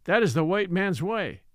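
lightly voiced old storyteller, deliberate and indignant; old Ebbets, storytelling. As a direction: explain the foolishness like a village elder.

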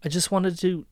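a captive and her ex-lover, understated; acted drama scene. Captive woman confronting the ex who tied her up, tense and hushed.

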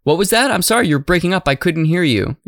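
high feigned bad-line confusion; dodging a caller. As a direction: pretend the line is breaking up. Dodging a rival's point.

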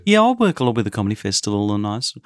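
quick arts-crowd Melbourne patter; lightly put-on Melbourne Australian, chatting fast; quiet middle-class Melbourne accent. Talking up comedy festival work, mock Melbourne accent. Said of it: "quiet middle-class Melbourne accent".

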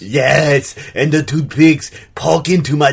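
put-on French-Austrian accent; affected accent. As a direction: artist in a muddled European accent. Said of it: "What is that accent?".

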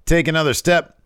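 loud, high mock wrestling promo; Waller. Waller belittling a rival's debut, scornful. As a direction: taunt like a heel on the mic. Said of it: "Waller says, gets on the mic".

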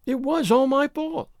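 put-on high, steady young woman's voice. A narrator's reading. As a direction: own up to it evenly, pitched high. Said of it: "she said steadily".

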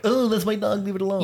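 high calling voice; woman calling out. Retold or imitated. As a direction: call out to a stranger. Woman calling about her dog.

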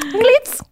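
"Cleats" with a long clear ee vowel, high and rising; correct cleats. Shown as a demonstration. Friend correcting the mom's word, careful long ee. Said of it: "saying clits instead of cleats".

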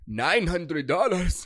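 slow, stunned mock gasp; shocked disbelief. Sugar daddy hearing the register total, slow and shocked.

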